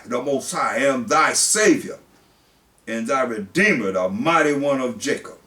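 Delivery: solemn pulpit reading; scripture reading. Acted. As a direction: read it out like the word of God.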